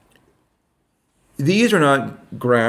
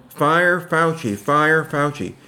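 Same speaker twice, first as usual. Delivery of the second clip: slow, mildly raised chant at ordinary volume; mock protest yell; 4 semitones higher, slower than usual. Retelling what protesters in Austin yelled, mild mock chant. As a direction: imitate a crowd chant without really yelling. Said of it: "they were yelling".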